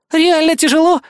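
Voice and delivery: indignant, high-pitched "Реально тяжело?"; indignant echo. A narrator's reading. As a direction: throw "Реально тяжело?" back in outrage. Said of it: "возмутилась девушка".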